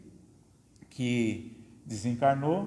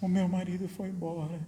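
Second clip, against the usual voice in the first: mock widow's lament; 4 semitones higher, 6 dB quieter than usual. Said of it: "chorando, reclamando".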